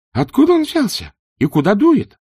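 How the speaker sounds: high, loud panicked yell. A narrator's reading. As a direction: shout the questions over the storm. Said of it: "проорал Два Цветок".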